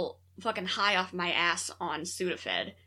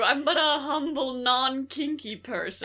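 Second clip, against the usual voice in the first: lightly mock-humble tailor, laughing; a hint of a Garak-style mock-humble line, slow, breaking into laughter; Garak quote; 3 semitones higher than usual. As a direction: play it as a falsely humble spy. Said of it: "quoting our version of Garak".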